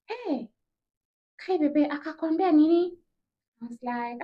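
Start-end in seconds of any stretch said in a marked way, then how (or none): 0.1-3.0 eager, higher nosy friend asking for news. Retold or imitated. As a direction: sound hungry for gossip, pitched up.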